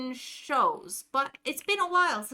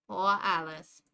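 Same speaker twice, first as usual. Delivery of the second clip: Jersey pity, lower; Jersey accent; 6 semitones lower than usual. Acted. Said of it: "It leans into stereotypes".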